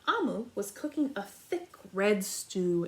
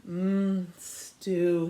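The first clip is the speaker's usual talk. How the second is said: sighed; 3 semitones lower, 5 dB louder than usual. Acted. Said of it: "he sighed".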